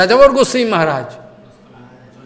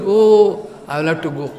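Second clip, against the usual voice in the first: mild fear; 3 semitones lower than usual. Retold or imitated. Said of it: "with fearful attitude".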